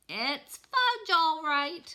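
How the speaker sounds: put-on a high, loud toddler copying his big brother; high toddler echo. Little brother echoing Peter to their mom in a high toddler voice. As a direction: parrot it back like an eager small child. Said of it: "my brother repeated".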